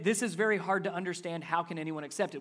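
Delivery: casual, offhand reading; flat, unbothered question; nonchalant. Shown as a demonstration. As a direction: toss it off lightly, no edge. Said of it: "We say it kinda nonchalant, just like that".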